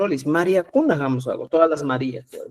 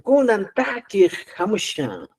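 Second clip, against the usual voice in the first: presentador; 5 semitones higher than usual. Pretend. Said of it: "Y también puedo decir".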